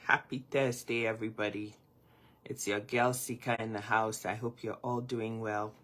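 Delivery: just-woke-up groggy voice; sleepy morning voice, still waking. Real, not acted. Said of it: "apologize for my groggy voice".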